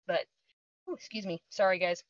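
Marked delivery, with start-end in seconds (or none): 0.1-0.9 talking through a burp. Real, not acted. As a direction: burp while speaking. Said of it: "I'm burping up my, uh, my caffeine".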